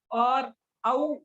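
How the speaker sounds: औ drawn out long and open. Shown as a demonstration. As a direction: stretch the औ so the diphthong rings. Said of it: "औ में double मात्रा लग जाती है।". (औ को खींचकर लंबा बोलना)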